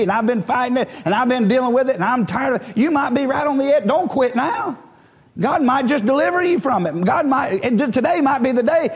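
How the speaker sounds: impassioned preacher's encouragement; urgent preaching. Real, not acted. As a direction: urge the congregation to hold on, voice lifted. Exhorting congregation not to quit.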